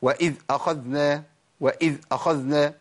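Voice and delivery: وإذ أخذنا with each ذ chopped short and hard; cut-off dhal error. Shown as a demonstration. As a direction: clip the ذ in وإذ أخذنا abruptly. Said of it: "أقطع الصوت".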